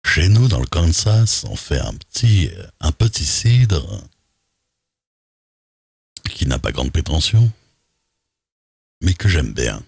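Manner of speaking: slow, swooping, hammed-up country character; playful drawling character voice; put-on Kansas rustic. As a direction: stretch the words like a proud homegrown local. Trying out possible character voices.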